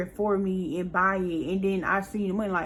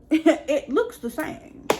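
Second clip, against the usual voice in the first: slow words through a laugh; amused, slow disbelief; 7 semitones higher, 3 dB louder, much slower than usual. Real, not acted. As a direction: laugh it out, drawn out and incredulous. Laughing at the shoe mix-up.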